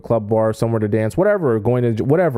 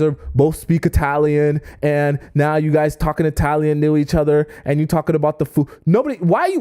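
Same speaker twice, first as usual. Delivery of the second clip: higher, needling jealous whine; mock exasperated questioning; imitating jealous irritation; 3 semitones higher than usual. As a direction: play the annoyed jealous boyfriend. Jealous partner's inner voice.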